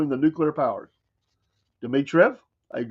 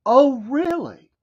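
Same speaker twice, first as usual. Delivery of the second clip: sarcastic; 9 semitones higher, 4 dB louder, slower than usual. Real, not acted. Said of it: "mocking disbelief".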